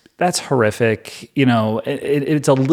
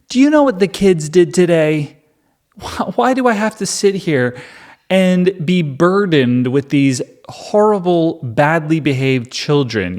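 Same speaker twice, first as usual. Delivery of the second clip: higher-pitched, exasperated parent venting; mock griping, pushed up high and slowing on the grievance; fed-up stay-at-home mom; 5 semitones higher than usual. Stay-at-home mom griping as husband comes home, fed up. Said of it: "like if you're a stay-at-home mom".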